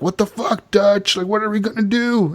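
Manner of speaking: freaking out. Retold or imitated. Gang members rounding on Dutch, freaking out. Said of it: "everybody starts freaking out on Dutch".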